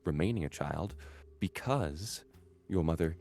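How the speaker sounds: measured, formal matriarch speaking with cool dignity; stately noble mother. Acted. Noble mother to her estranged stepchild, formal and cool.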